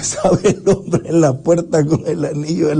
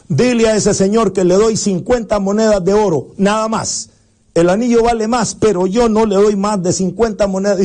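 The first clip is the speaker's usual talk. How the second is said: jeweler's offer; 4 semitones higher than usual. Acted. Jeweler makes his offer.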